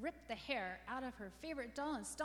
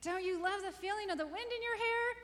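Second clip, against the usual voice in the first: very high, loud teasing glee; mock delight; 12 semitones higher, 8 dB louder than usual. A narrator's reading. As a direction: taunt your sister through the doll. Dangling doll out window teasingly.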